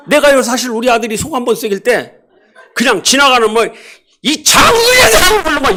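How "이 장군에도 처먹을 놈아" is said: high, loud hammed-up shout at son; mock angry yell. Father yelling a scolding blessing at his son. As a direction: yell it like a fed-up parent. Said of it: "이렇게 한번 했거든".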